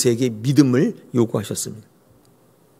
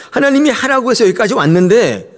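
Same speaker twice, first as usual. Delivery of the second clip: sarcastic protest; 5 semitones higher than usual. Retold or imitated. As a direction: needle God with bitter sarcasm. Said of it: "하나님께 빈정대고 있는 거예요".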